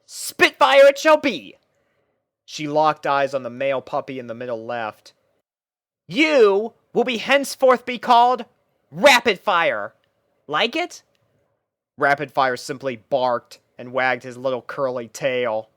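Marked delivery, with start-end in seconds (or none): 0.1-11.0 higher, louder pony voice taking charge; a pony captain lining up her troops; higher pony voice addressing puppies; Rainbow Dash voice, bossy and bright. A narrator's reading.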